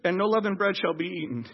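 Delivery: soft, low, deflated reading; anticlimactic, subdued verse; fizzling out. Acted. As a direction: let the excitement drain away as you read. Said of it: "it almost seems like it fizzles out".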